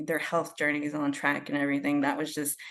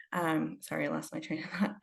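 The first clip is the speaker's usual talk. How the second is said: nervous; 6 dB quieter than usual. Real, not acted. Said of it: "I'm a little nervous".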